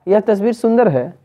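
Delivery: mildly amazed exclamation; a touch of wonder, falling at the end; surprise. Shown as a demonstration. Teacher showing an exclamatory sentence, mildly surprised. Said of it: "आश्चर्य हो रहा".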